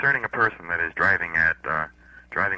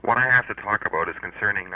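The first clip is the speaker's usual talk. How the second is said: speaking up; 2 semitones higher than usual. Real, not acted. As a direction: raise the voice so he hears. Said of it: "Speak up".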